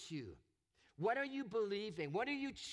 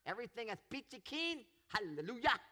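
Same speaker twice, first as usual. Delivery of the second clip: louder, breezy fake cheer, a bit higher; mock cheerful piety; 4 semitones higher, 4 dB louder than usual. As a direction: sing out a smug hallelujah as if nothing hurts. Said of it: "he didn't sit back and say".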